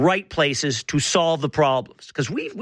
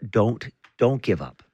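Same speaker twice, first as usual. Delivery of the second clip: mock-serious support; 6 semitones lower than usual. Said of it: "something a little serious".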